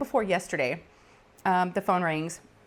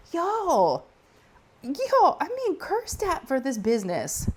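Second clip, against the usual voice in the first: high laugh-cry through the words; half laughing, half wailing at the absurdity; laughing while talking; 9 semitones higher, much slower than usual. Real, not acted. Clerk telling viewers about prank callers, laughing high.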